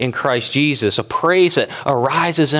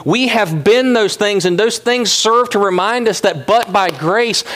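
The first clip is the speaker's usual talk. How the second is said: preaching; 8 semitones higher than usual. Acted. Pastor preaching to his congregation, fervent. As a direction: drive it home to the church.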